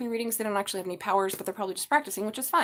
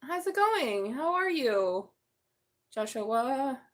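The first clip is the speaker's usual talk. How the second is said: higher cooing hello; sing-song greeting; 4 semitones higher, much slower than usual. Real, not acted. A tarot reader greets Joshua again, high sing-song hello. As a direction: lift the voice to greet him.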